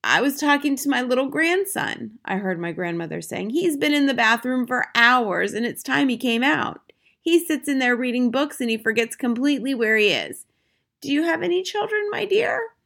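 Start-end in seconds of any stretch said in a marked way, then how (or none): 0.0-2.2 put-on high, unruffled old lady voice; breezily composed, pitched up; cool grandmother. A narrator's reading. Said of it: "the coolness of her voice". 3.5-12.7 put-on high, unruffled old lady voice; breezily composed, pitched up; cool grandmother. A narrator's reading. Grandmother chats innocently to witch.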